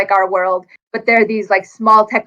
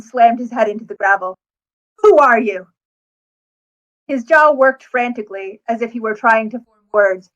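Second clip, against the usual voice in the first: steady first-person audiobook read; story narration. Acted. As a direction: read the passage like a novel's narrator. Author reads her book excerpt.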